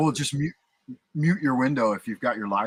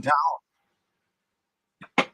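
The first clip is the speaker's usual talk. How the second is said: drawn-out, very slow hammed Irish brogue; very slow mock Irish accent, higher and a bit louder; 5 semitones higher, 3 dB louder, much slower than usual. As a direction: savour the words in a put-on Irish lilt. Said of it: "my best Irish accent".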